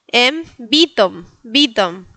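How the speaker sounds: Bytom said BEE-tom; wrong Latin I. Retold or imitated. Learner telling a friend her town, mispronounced with i. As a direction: say Bytom with a Spanish i in place of Polish y. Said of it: "con la I latina".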